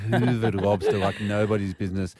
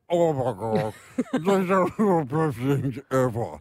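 delighted gush; 4 dB louder than usual. Retold or imitated. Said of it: "she's like".

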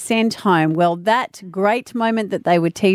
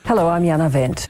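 newsreader voice; 4 semitones lower than usual. Retold or imitated. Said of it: "hearing her say this".

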